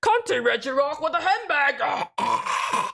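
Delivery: slow robotic assistant readout; Google Assistant voice. Pretend. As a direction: read it like a voice assistant. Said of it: "Google Assistant, please translate that".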